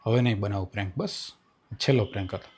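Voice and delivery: low, soft promise; reassuring. Real, not acted. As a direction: soothe with a quiet promise.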